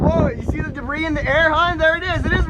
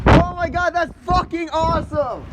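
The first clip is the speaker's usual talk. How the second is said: excited; 5 semitones higher than usual. Real, not acted. Awe at tornado.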